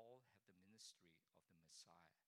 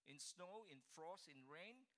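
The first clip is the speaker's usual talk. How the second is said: each item higher and louder with a rise; loud, rising emphatic list; emphatic repeat; 10 semitones higher, 8 dB louder, slower than usual. Shown as a demonstration. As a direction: hammer home snow, frost and rain.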